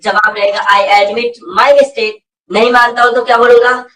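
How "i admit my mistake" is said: drawn-out teacher's model sentence; slow model answer. Shown as a demonstration. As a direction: say it very slowly for students to repeat.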